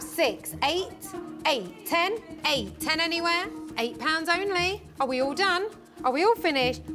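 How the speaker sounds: usual speaking voice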